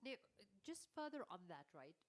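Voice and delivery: stuffy, blocked nose; congested nasal voice. Real, not acted. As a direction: speak through a blocked nose. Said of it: "bear with my nasal voice today".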